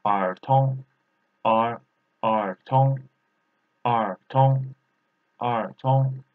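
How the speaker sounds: "R tone" as Mandarin er tong, both rising second tone; "R tone" spoken as two separate second-tone syllables. Shown as a demonstration. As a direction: drill "R tone" with second tone on each syllable. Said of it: "second tone and second tone".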